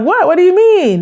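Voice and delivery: hammed-up innocence; mock innocent surprise. Acted partner playing innocent.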